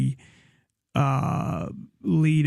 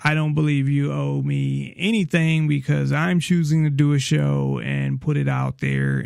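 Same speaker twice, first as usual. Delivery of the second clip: ordinary talk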